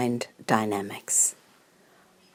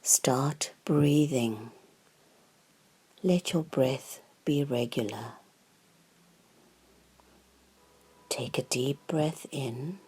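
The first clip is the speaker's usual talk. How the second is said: guided meditation; 5 dB quieter than usual. Real, not acted. Guide settling listeners into mindful breathing, calm guided meditation. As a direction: lead them calmly and unhurriedly, leaving room to breathe.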